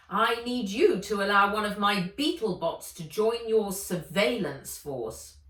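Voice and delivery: loud, commanding villainess; lightly voiced overbearing old woman; Ivy, domineering. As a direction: push straight to the point, bossy. Ivy making demands.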